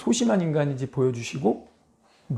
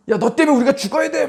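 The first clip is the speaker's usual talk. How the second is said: high angry shout of blame; accusing yell; 9 semitones higher, 4 dB louder, faster than usual. Retold or imitated. Crew shouting at Jonah in angry yell. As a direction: yell at him like a furious sailor. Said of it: "막 이런 분위기".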